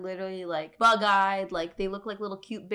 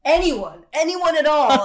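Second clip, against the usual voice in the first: desperate plea; 7 semitones higher, 11 dB louder than usual. Pretend. Mocking desperate government plea.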